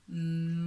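"Maëline" very slow, syllable by syllable; sounded-out name. Shown as a demonstration. Teacher sounds out a child's name, very drawn out. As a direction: stretch every syllable of "Maëline". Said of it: "il faut attacher".

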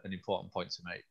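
losing voice, slightly hoarse; a voice that's starting to go. Real, not acted. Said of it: "I'm losing my voice a little bit".

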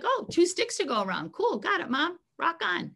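high, upbeat voice for an easygoing dog; light, high-pitched cool-with-it dog; carefree dog. Acted. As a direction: imitate a dog cheerfully catching on. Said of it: "He's like".

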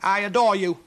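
high, loud forced sweetness; through gritted teeth. Acted. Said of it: "She gritted her teeth".

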